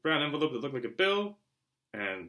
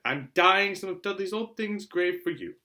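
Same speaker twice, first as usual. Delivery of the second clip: higher, louder and slow; prim aunt; 6 semitones higher, 6 dB louder, slower than usual. Acted. Aunt Petunia explaining the grey uniform, high and slow. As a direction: lay it out with prim disdain.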